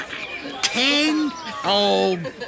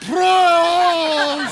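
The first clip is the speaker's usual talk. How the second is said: loud toast; 9 semitones higher, 5 dB louder than usual. Acted. Toast at party.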